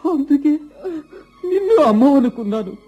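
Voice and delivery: dying tearful joy. Acted. Dying son speaks to mother.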